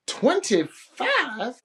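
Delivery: puzzled question. Retold or imitated. Doing the math out loud.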